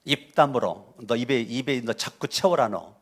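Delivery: lightly voiced blunt Chungcheong dialect scolding; 충청도 사투리로 거칠게 꾸짖듯. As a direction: scold him in rough Chungcheong dialect, half joking. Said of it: "충청도로 말하면".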